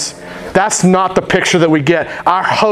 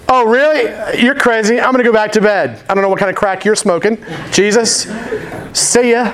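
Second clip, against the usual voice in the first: mocking disciple; 5 semitones higher than usual. Disciple mocks Jesus' invitation.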